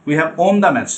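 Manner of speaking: slow, with won said the wrong way; wrong pronunciation. Shown as a demonstration. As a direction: show the mistake. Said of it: "না".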